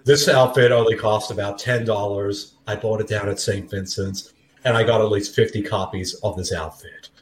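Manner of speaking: lightly voiced mock actor interview; low, even, slightly subdued delivery. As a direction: answer lightly in a movie star's persona. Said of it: "Thanks for that, Nick".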